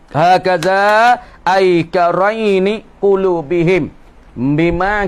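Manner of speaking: slow, drawn-out text reading; kitab recitation. Acted. Teacher reading a religious text to students, slow intoned recitation. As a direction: read the Arabic slowly, stretching the vowels.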